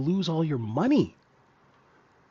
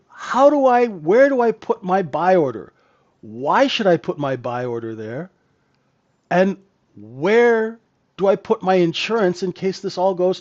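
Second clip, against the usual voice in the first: getting emotional; 2 semitones higher than usual. Real, not acted. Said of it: "Sorry, I'm getting a little emotional about it".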